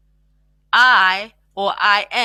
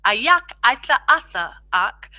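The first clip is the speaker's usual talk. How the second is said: slow demo; 3 semitones higher than usual. Shown as a demonstration. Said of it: "good to practice out".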